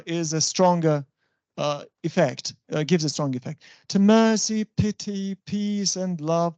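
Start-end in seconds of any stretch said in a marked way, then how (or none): 3.9-6.5 MERCY, PITY, PEACE, LOVE each set apart evenly; metrical recitation. Shown as a demonstration. Teacher quoting a poem to illustrate metre, measured recitation.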